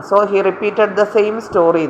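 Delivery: slow corrected sentence, without again; teacher reading the correction, a little slow; reading the corrected version. Shown as a demonstration. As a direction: give the fixed sentence slowly and clearly. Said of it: "repeat ചെയ്യുക എന്ന് പറഞ്ഞാൽ again ചെയ്യുക എന്നാ".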